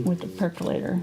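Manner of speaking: talking around a brush in the mouth; words muffled by a brush held in the teeth; mouth full. Real, not acted. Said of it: "I'm holding my brush in my mouth".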